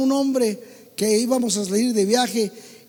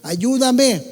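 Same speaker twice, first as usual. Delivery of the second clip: mock plea; much slower than usual. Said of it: "está llorando".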